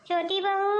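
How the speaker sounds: calling out. Acted. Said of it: "क्यों चिल्ला रही हो?".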